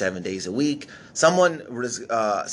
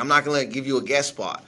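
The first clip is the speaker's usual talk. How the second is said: imitating an angry manager; 3 semitones higher than usual. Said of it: "like, mad at me".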